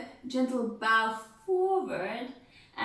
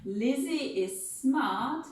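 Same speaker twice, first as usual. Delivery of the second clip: slow, savoured words; slow proud listing; 3 semitones higher, slower than usual. Shown as a demonstration. Mother showing off her daughters, slow and proud. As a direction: linger over each daughter. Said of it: "So we'll go".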